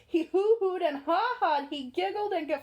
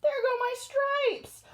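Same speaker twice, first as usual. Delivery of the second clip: zebra yelling; 8 semitones higher, slower than usual. Acted. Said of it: "The zebra yelled".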